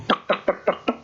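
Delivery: rapid dry tongue-click "tek" steps; imitated quick footsteps. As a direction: tick out brisk little footsteps, softly. (tiruan bunyi langkah cepat)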